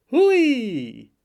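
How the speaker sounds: high, loud, drawn-out whoop; squealed exclamation. Acted. Girl reacting to whisky cola, loud squeal. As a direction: let out a long falling squeal.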